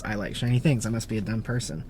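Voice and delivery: ordinary talk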